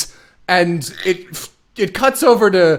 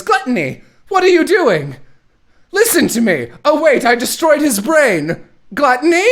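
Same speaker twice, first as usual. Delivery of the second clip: mock panicked villain; 9 semitones higher than usual. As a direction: call the pet monster in a fluster. Villain Dante panicking at Gluttony.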